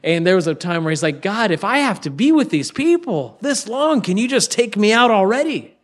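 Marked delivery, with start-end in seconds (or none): 1.2-5.8 higher-pitched, exasperated plea; mock-weary bold appeal; bold prayer. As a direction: imitate a fed-up man complaining to God. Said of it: "that's a bold prayer to talk to God like that".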